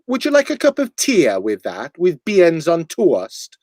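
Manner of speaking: light Welsh lilt, every vowel drawn out, slow at the end; a playful Welsh cafe voice; mock Welsh accent. Host mocking Welsh breakfast staff, light Welsh accent. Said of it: "with Welsh, they like to pronounce every vowel".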